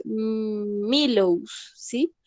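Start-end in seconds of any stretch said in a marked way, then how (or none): 0.9-1.7 Milows said the Spanish way, H dropped, "mi-LOWS"; teacher mimicking a Spanish reading of Milhouse. Shown as a demonstration. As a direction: read Milows as a Spanish speaker would. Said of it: "nosotros diríamos".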